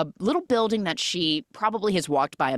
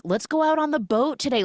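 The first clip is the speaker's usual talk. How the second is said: eager; 10 semitones higher, faster than usual. Retold or imitated. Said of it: "are like".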